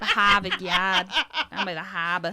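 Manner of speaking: Boston accent. Shown as a demonstration. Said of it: "Now do a Boston accent".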